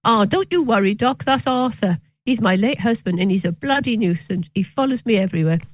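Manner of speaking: light, imitated Cockney patient's voice; retold line in a mild Cockney accent. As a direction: have a go at a chirpy Cockney woman. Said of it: "what she said in a Cockney accent was".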